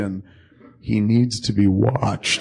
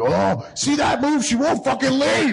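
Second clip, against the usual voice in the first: high-pitched, drawn-out mock whine; exasperated complaint; 13 semitones higher than usual. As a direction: imitate someone helplessly fed up, voice way up. Acts out his exasperated complaint.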